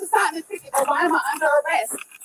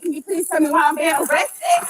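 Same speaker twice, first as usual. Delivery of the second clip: desperate shouting. Real, not acted. Distressed woman begging during arrest.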